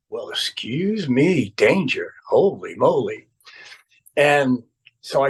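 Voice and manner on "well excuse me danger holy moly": drawn-out, mock-affronted "well, excuse me"; slow, teasing retort; mock-impressed look. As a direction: imitate someone sarcastically impressed, stretching the words. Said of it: "looked at me like".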